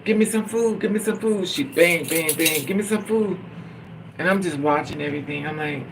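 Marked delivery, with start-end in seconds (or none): 0.0-1.5 mock scream. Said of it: "she screams". 2.6-3.4 mock scream. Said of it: "she screams".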